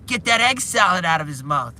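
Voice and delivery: loud, high mock shout; imitated yell. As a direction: call out urgently as the bystander in the scene. Bystander yelling in retold scene.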